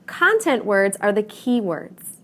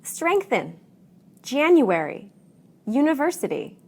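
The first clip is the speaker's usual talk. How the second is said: stressed syllable in "Strengthen", "January", "university" lifted high; word stress demo; 4 semitones higher than usual. Shown as a demonstration. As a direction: model each word alone with a clear stress peak. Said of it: "Let's try some more".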